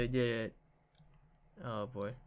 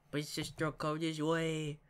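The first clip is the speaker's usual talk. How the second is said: little sister voice; slower than usual. Acted. Little sister Mari calling.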